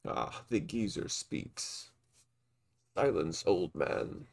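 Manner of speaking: slow, sneering villain voice; drawn-out menacing taunt; sinister villain. Acted. Villain Dalton taunting old man.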